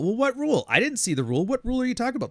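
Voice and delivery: high, playing-dumb passenger voice; mock whiny passenger. Bus driver mimics a stalling passenger, high and whiny. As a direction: whine like a rider pretending not to get it.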